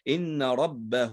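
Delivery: slow "ربه" ending in long -huu; ha joined with waw. Shown as a demonstration. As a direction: recite "إن ربه", drawing the final hu into a waw. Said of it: "فتوصل بواو هنا لأنها مضمومة".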